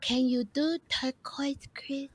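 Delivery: Paris Hilton. Retold or imitated. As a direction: play the spoiled celebrity boss asking nicely. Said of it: "me being Paris Hilton going".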